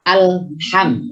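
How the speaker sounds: "Alham" with lam going straight into ham; clean stopped lam. Shown as a demonstration. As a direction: hold the lam in "Alham" with no extra vowel. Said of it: "langsung ke huruf selanjutnya".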